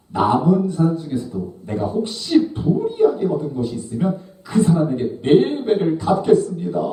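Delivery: high-pitched, earnest vow; acted Zacchaeus making a bold promise; fervent pledge. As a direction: declare it with rising fervour. Acting Zacchaeus's pledge to Jesus.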